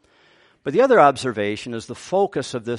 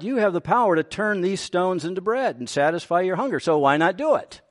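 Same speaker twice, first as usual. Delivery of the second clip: higher, faster coaxing voice of the tempter; Satan tempting; 5 semitones higher than usual. Retold or imitated. Satan goading the fasting Jesus, higher and quicker taunt. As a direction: needle him, quick and pushy. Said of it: "So Satan would have been suggesting".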